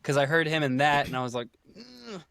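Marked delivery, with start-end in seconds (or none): 1.8-2.2 small, high, very soft "ugh"; quiet high-pitched groan of distaste; retold disgusted groan. Listener reacting to a miscast narrator, soft mock groan.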